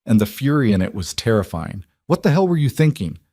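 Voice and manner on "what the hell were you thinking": high, raised angry demand; furious shout. Acted. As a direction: rage at him for the risk. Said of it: "first time he'd raised his voice".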